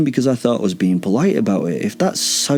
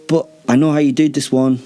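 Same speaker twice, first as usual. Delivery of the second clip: rattling on; 3 semitones higher than usual. Acted. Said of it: "I kept rattling on, trying to continue to speak inane nonsense".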